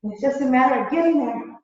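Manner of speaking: breathless, straining to breathe; winded from the pose, pushing words out; out of breath. Real, not acted. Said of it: "Now see, I'm out of breath".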